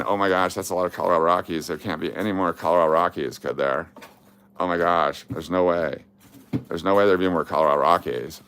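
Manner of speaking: fast, lightly voiced Valley Girl; quick ditzy Valley Girl gush. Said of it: "that's her, uh, Valley Girl voice".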